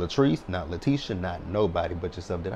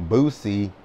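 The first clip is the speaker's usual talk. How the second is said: calling out; 6 dB louder than usual. Real, not acted. Calling out a cast member.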